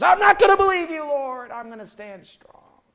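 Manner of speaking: high, loud, fast defiance; Peter's defiance. Retold or imitated. Peter defying the Lord's warning, high and fast. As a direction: swear you'll stand firm. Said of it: "Peter arguing back".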